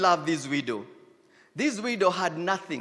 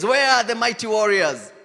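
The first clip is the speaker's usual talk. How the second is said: calling out loud for warriors; God calling out; 3 semitones higher, 9 dB louder than usual. Pretend. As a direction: call it out, rising louder to a shout. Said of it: "the Lord is looking at ... and says".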